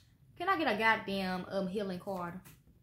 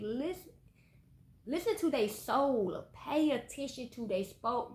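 preachy advice; 2 semitones higher than usual. Real, not acted.

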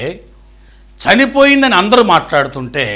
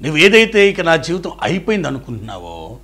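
ordinary talk

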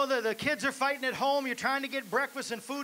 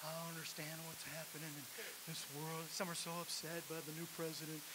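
a hint of a glazed, lost churchgoer, softer and faster; dazed worldly voice; 5 semitones lower, 15 dB quieter, faster than usual. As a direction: lightly mimic confused people of the world. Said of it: "glossy-eyed and glazed they are".

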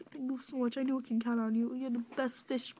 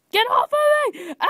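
shout; 10 semitones higher, 7 dB louder than usual. Acted. Shouting during struggle.

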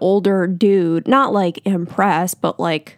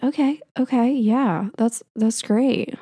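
nervous nurse; 3 semitones higher, slower than usual. Retold or imitated. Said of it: "I could tell he was nervous".

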